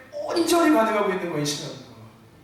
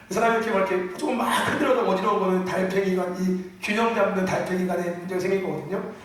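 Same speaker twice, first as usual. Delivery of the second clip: ordinary talk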